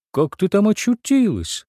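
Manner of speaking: a gasp of wonder from below; amazed. Acted. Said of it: "ужасно удивлённое". (чудовище ужасно удивлено)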